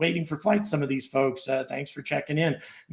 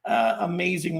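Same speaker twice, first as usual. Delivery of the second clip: excited; 6 semitones higher, 4 dB louder, slower than usual. Real, not acted. Reacting to a flood of memberships.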